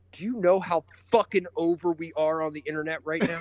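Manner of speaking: retold line said through laughter; laughing while imitating an angry wrestler; laughing quote. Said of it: "walks over to Uno and goes".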